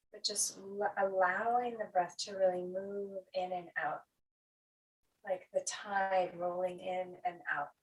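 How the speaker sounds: calm, rolling meditation guidance; guided breathing. Acted. Teacher letting the breath move like the tide, guided breathing. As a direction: let the phrases roll gently with pauses between.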